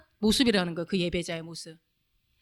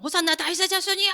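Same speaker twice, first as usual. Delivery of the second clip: mock shouted praise; 6 semitones higher, 3 dB quieter than usual. Crowd praising Jesus as he enters Jerusalem, mock shout. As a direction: imitate a crowd crying out, held back in volume. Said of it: "막 소리 지르고 주님을 찬양하죠".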